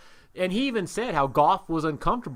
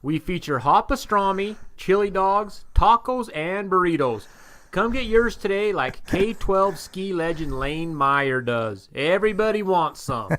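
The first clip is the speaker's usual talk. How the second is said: upbeat retro radio ad read; chipper 1950s ad; 4 dB louder than usual. Acted. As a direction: sell it like an old-time jingle announcer. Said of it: "who's bringing this episode to us".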